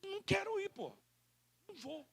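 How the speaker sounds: a guest bluntly turning down the invite; blunt refusal. Retold or imitated. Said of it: "o cara não tem coragem de dizer assim".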